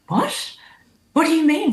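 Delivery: high, shocked What?; startled disbelief. Retold or imitated. Asked to go on stage, startled high disbelief. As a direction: squeak it out, caught completely off guard.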